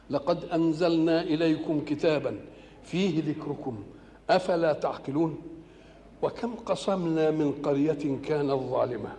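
slow, measured chanting of the verses; solemn tajweed-style recitation; Quran recitation. Acted. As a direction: draw out each word reverently.

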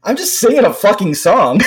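put-on high, sing-song little girl voice; lightly mimicked daughter, high and sweet; imitating toddler. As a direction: chirp it like a proud toddler. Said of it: "she goes".

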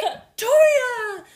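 loud high scolding call of a name; shaming scold. Retold or imitated. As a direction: call her name out like scolding a naughty dog. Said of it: "Like they're shaming".

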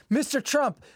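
lightly hammed-up hesitant interviewer; interviewer impression. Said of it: "and it's like".

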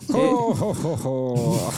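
Santa laugh. Pretend. Friend retrying the fake ad intro, mock Santa laugh. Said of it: "no se ríe Santa Claus".

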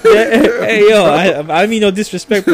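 calling out. Real, not acted. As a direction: shout politely to someone outside. Calling out to lawnmower worker.

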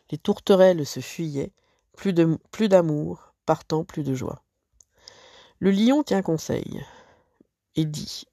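expressive recitation of a La Fontaine fable; fable read aloud. Acted. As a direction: recite it like a storyteller for pupils. (lecture expressive d'une fable)

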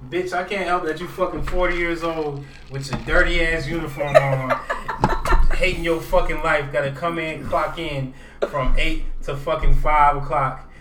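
loud, mounting rant at a rude cashier; angry tirade. Acted. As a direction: chew the cashier out, hammed up.

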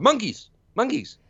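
high-pitched mock reply; acted-out exclamation. Retelling the answer to the cop, high mock voice. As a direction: pitch it way up, imitating the character.

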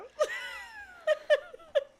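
loud, high shrieking laugh. Real, not acted. Laughing after saying she's scared.

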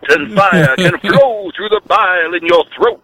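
hint of a radio preacher; lightly voiced preacher sermon; Reverend Wolfman. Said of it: "This is the Reverend Wolf Man".

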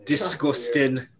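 slow, soft disgusted drawl; quiet slow disgust at the story. Real, not acted. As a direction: let it drip with distaste. Friend reacts to crude story.

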